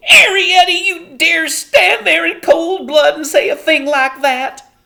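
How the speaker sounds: appalled, draw out every word; outraged scolding. A narrator's reading. Homily shocked and angry.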